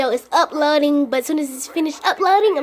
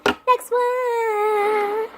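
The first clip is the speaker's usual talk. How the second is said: excited; 8 semitones higher than usual. Acted. Announcing next squishy excitedly.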